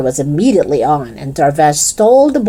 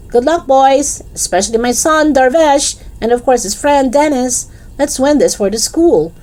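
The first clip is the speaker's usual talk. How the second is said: shouting; 9 semitones higher than usual. Acted. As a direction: call out proudly across the pitch. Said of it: "shouted Darvish's mom".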